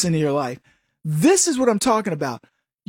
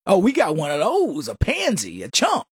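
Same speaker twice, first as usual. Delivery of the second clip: mock tough guy. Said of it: "There's gonna be somebody going".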